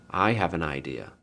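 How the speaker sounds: soft, low, small voice; little girl. A narrator's reading. Peasant girl offering her idea to the village, small soft voice. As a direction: say it quietly and simply. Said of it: "There was a little peasant girl".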